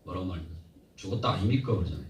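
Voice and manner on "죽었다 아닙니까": light Gyeongsang accent; Gyeongsang dialect. Shown as a demonstration. Preacher showing regional speech to the congregation, Gyeongsang accent. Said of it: "경상도는".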